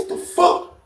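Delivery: hushed, breathy disbelief; stunned hushed reaction. Acted. Inmate stepping in cold water, stunned hush. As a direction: say it under your breath, voiceless.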